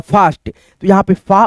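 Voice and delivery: "फास्ट" then a slow, drawn-out "फा" with the long aa; teacher breaking a word into sounds slowly; sounding out. Shown as a demonstration. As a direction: split "फास्ट" and hold "फा" to show the aa sound. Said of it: "इसका उच्चारण कैसे होता है".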